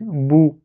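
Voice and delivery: "bou" with lips pushed out, drawn out; lips well out. Shown as a demonstration. Teacher teaching good habits, "bou" with lips well forward. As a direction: round the lips fully on "bou". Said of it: "on sort bien les lèvres".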